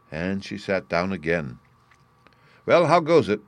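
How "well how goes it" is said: put-on high, loud hearty greeting of an old duck; old duck visitor. A narrator's reading. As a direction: call out a cheery hello. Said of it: "asked an old duck".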